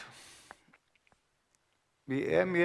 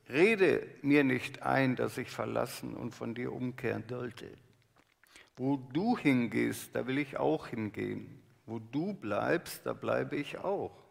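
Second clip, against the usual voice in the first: solemn scripture reading. Acted. Reads Ruth's vow slowly.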